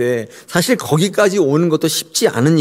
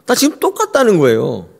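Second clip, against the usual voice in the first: sarcastic protest; 5 semitones higher than usual. Retold or imitated. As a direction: needle God with bitter sarcasm. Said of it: "하나님께 빈정대고 있는 거예요".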